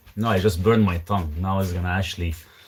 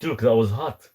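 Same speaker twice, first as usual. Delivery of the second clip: talking with scalded tongue; burned tongue. Real, not acted. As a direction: speak around a burned tongue. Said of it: "Freaking burned my tongue".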